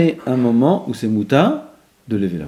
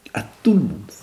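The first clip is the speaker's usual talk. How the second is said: chuchote sans voix; souffle-le tout bas; chuchoté; 6 semitones lower than usual. Shown as a demonstration. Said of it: "Lechol adam". (chuchoté)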